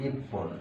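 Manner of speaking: ইপ্পন with a held double p; say ippon. Shown as a demonstration. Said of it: "উচ্চারণটা হবে". (ইপ্পন, জোর দিয়ে প্প)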